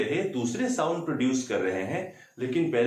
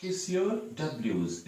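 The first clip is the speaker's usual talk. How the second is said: soft slogan; 5 dB quieter, much slower than usual. Shown as a demonstration. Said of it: "आसान सा सूत्र है".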